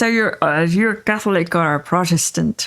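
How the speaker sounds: mild imitation of a Northern Irish shopkeeper; Northern Irish accent. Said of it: "in their accent".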